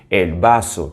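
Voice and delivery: "vaso" with a voiceless S; Spanish S sound. Shown as a demonstration. Teacher reminding learners of the rule, "vaso" with a clean S. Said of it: "não existe o som do Z".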